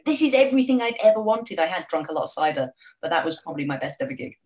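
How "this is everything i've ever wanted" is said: high, loud gig-front rapture, imitated; hysterical fan. Fan at the front of the gig, mock hysterical cry. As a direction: relive screaming joy at the front of the crowd. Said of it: "hysterical, just going".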